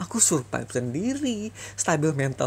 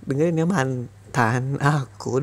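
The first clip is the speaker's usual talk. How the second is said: slow and deliberate; 2 semitones lower, 3 dB louder, much slower than usual. Acted. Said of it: "Sekali lagi dengerin lagi".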